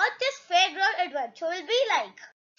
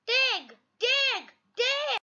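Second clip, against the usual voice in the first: high ding, stepping higher each time; ringing bell imitation; 6 semitones higher, much slower than usual. A narrator's reading. Narrator voices the fairground bell after the hammer hit, ringing. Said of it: "The bell rings loudly".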